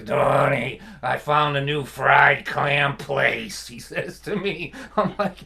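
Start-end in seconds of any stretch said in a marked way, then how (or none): 0.0-3.7 put-on slow, gravelly old dad voice; imitating dad's gravelly voice. To his son about a new clam place, a slow gravelly imitation of his dad. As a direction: drag it out like a chain-smoking old man. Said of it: "he would talk like this".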